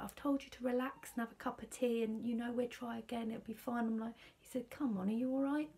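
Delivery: imitating husband. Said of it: "He's just like".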